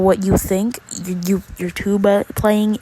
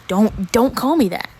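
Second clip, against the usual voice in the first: raised voice; 2 semitones higher, 5 dB louder than usual. Retold or imitated. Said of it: "I kinda raised my voice a bit".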